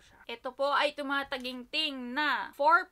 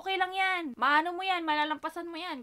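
louder, higher reassuring sister voice; quoting big sister; 5 semitones higher, 6 dB louder than usual. Retold or imitated. Sister cheering her up, louder upbeat imitation. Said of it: "Lagi siyang ganun".

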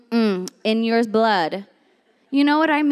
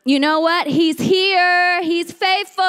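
raised, excited declaration; insistent believer; 5 semitones higher, 3 dB louder than usual. Acted. Believer answering doubters, bold and excited.

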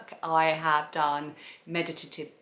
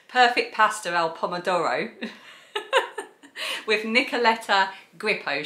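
South East London Perfect Pasta al Pomodoro, no Italian; flat South East London accent on the dish name; 3 semitones higher, 4 dB louder than usual. Shown as a demonstration. Vlogger redoing the title, South East London accent. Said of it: "the South East London accent".

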